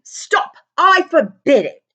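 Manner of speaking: loud, high, frantic; frightened uncle shouting to silence the giant; panicked yell. A narrator's reading. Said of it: "yelled Uncle Vernon in a panic".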